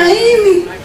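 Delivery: very high, put-on taunting voice; mock menacing voice. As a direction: spook the listeners, half joking. Continuing the hell taunt. (suara tinggi dibuat-buat, menakut-nakuti)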